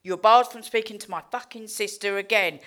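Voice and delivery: loud indignant order; retold angry demand. To nurses and doctors, barring them from her sister, loud and indignant. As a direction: bark it at the staff like a spoiled addict. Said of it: "went round to all the nurses and doctors and said".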